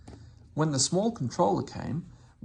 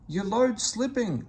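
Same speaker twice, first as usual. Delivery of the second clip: slow, higher warning call; voiced shout of alarm; 9 semitones higher than usual. A narrator's reading. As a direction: call out the slipping load, slowly. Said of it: "someone shouted".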